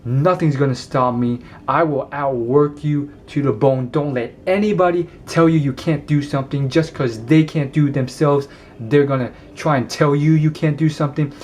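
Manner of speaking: lightly imitated forceful motivator; a slight push of power, punching key words; Will Smith. Man trying to embody an actor, mildly forceful pep talk. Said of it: "Tremendous energy when he talks".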